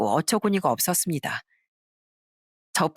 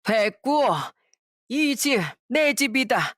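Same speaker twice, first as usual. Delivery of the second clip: 고함치는 시할머니; 5 semitones higher, slower than usual. Acted. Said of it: "소리를 쳤습니다".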